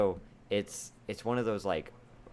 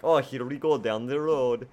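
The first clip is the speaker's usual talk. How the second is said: silly voice; 4 semitones higher, 6 dB louder than usual. Retold or imitated. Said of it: "me doing different accents and impressions".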